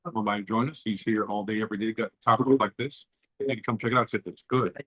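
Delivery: low, smooth radio host plug. Pretend. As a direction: promo it like a radio DJ. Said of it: "You put on your D J voice".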